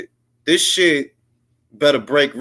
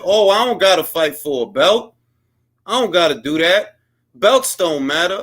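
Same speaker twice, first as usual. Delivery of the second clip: mocking Ryan; 3 semitones higher than usual. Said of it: "Ryan just riding that same wave".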